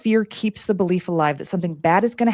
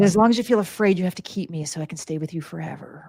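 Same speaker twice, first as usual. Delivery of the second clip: creepy devil voice. Acted. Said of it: "this creepy, weird voice".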